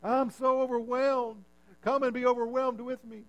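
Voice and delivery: lightly mocking overwhelmed caricature; mock overwhelmed whine. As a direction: drag the words out like a martyr. Mocking overcommitted people.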